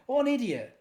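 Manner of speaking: real self-mocking laugh; laughing at herself. Real, not acted. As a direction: scoff at your own blunder through a laugh. Laughs at own blunder.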